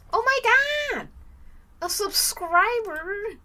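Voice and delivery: high, loud thrilled cry; excited squeal. Real, not acted. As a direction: shriek with joy, stretching the last word. New subscriber appears on stream.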